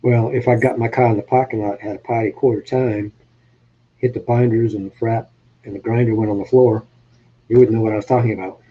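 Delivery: Boston-area New England talk, dropping the r's; New England accent. Shown as a demonstration. Showing an accent fan some local slang, New England accent. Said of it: "That's a New England accent".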